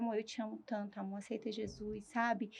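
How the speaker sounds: very soft, retold plea to a husband; súplica baixinha. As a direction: murmur it tenderly, as if lying in intensive care. Deitada na UTI, fala com marido. (súplica em voz bem baixinha, reencenada)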